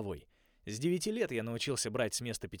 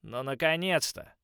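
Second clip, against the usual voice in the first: high, loud slow howl of glee; 7 semitones higher, 10 dB louder than usual. A narrator's reading. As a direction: howl it out in triumph. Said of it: "взвыл Омега-волк Бо".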